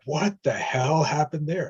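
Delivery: slow, drawn-out astonished question; stunned disbelief. Retold or imitated. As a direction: imitate baffled onlookers, stretching the words. Onlookers stunned after client storms out.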